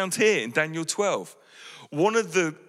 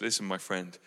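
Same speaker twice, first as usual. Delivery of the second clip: tender reply; 7 semitones lower, 6 dB quieter than usual. Acted. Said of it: "Jesus says".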